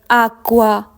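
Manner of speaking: acqua said AHK-kwah, held double k; Italian word model. Shown as a demonstration. Teacher models the Italian word for learners. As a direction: model Acqua loudly and clearly. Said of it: "Focus on the pronunciation".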